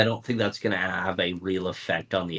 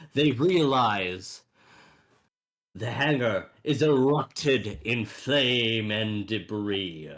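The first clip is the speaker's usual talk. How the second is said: lightly voiced show-intro narration; announcer narration. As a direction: narrate like a cartoon broadcaster. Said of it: "going more with the, the fish, broadcaster".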